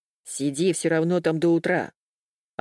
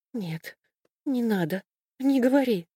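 horrified plea; 6 semitones higher than usual. Acted. Horrified reaction to suicide news.

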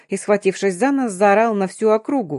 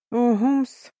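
higher, offhand grunt, lightly voiced; a dismissive huff; grunted mumble; 4 semitones higher than usual. Darina brushing off the girl's answer, mild grunt. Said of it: "буркнула Дарина".

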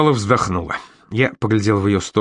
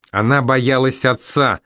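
slow mild whimper into her shoulder; understated tearful whimper; 3 semitones higher, slower than usual. Acted. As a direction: whimper it, barely holding together. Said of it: "прохныкал я ей в плечо".

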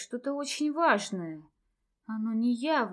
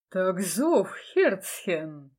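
innocent tone; much slower than usual. A narrator's reading. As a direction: play it falsely innocent. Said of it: "невинно сообщил Дитер".

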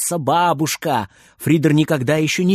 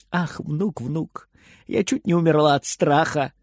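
trembling murmur. Acted. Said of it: "голос у неё тоже дрожит".

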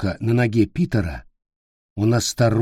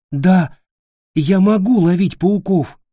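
high, louder eager yes; boy quickly agreeing; nervous little boy; eager child; 8 semitones higher, 4 dB louder than usual. Acted. Child voice in story.

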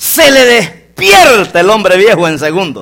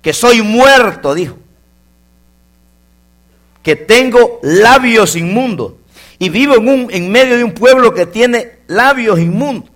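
slow prophet's lament; 4 semitones higher than usual. Acted. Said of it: "se miró en el espejo de Dios y dijo".

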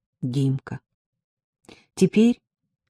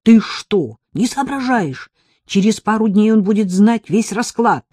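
scolding; 5 semitones higher, 6 dB louder than usual. Acted. Ирка отчитывает подругу.

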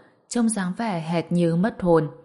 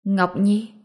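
mildly astonished, rising question; stunned; 2 semitones higher than usual. A narrator's reading. Old father seeing his lost daughter at the door, stunned. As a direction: call the name in disbelief. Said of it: "ông cụ Tô cũng sừng sốt y hệt".

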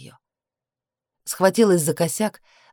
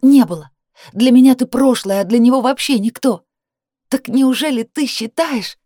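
loud, higher, pushing back hard; raised angry voice; 8 semitones higher, 6 dB louder than usual. A narrator's reading. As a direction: argue loudly with him. Argument heats.

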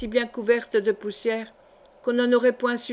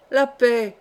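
sharp, louder cut-off; abrupt interruption; 5 dB louder than usual. Acted. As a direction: silence him in one curt blow. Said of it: "interrompit brusquement le jeune gentilhomme". (coupant, brusque)

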